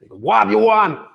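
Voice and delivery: grumpy American voice shouting back from another room; American accent. Retold or imitated. Husband shouts back to his wife from afar, loud American voice. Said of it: "I'm not gonna do any more American accents".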